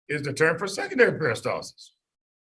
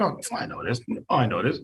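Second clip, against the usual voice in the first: imitated student; 7 semitones lower than usual. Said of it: "when you get to a question".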